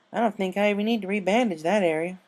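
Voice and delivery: mildly pleased remark to the patient; happily. Acted. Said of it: "Applejack happily said".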